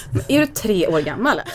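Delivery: laughing through the son's jab; mock amused scolding; laughing taunt. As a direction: son laughing at his mother. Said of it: "garvar och bara".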